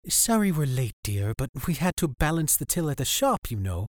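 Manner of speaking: put-on high, kindly older woman; grandma voice. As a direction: apologise sweetly, like a grandma. Grandma speaks.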